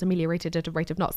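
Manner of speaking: rattled off fast; fast tongue twister. Shown as a demonstration. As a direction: race through "Ameliorated at a rate of knots" as a tongue twister. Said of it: "Say that ten times".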